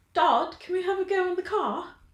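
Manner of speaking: light put-on British accent. Quoting a line the way she said it, put-on British accent. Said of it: "if I'm thinking British accent".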